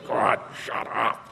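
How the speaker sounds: slow, whispered exasperation; seething under breath. Retold or imitated. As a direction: whisper it, pissed at the endless talker. Seething silently at the rambler.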